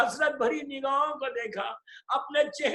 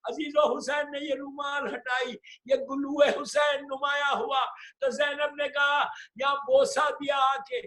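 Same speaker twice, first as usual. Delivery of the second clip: impassioned lament preaching; 2 semitones higher than usual. Acted. Preacher wails the farewell to the mourners, full-voiced lament.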